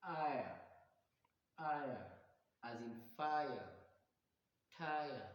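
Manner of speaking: IRE as a three-part eye-uh glide, falling; triphthong demonstration. Shown as a demonstration. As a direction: sound out IRE alone, then in FIRE and TIRE. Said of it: "a combination of three vowels".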